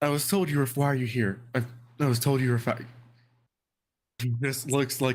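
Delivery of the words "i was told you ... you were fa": ghostly woman character voice. Voicing the ghost lady confronting the group: ghost lady character voice. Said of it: "and she's like".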